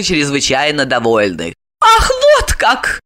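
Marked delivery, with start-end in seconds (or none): 1.8-3.0 much higher, slow, offended; drawn-out indignant cry; angry retort. A narrator's reading. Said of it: "рассердилась она". (возмущённо, протяжно)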